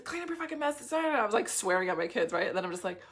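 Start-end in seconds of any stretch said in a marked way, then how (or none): none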